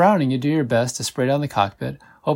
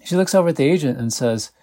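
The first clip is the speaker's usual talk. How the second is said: usual speaking voice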